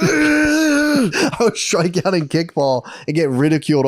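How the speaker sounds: slow, half-sobbing laugh; mock-crying while laughing. Real, not acted. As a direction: laugh it out through tears. Laugh-crying retelling childhood.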